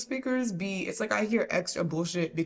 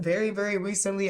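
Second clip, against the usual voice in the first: overdone, insistent "very, very recently"; exaggerated emphasis. Shown as a demonstration. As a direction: lay it on a bit too thick. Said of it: "I didn't say, like, that".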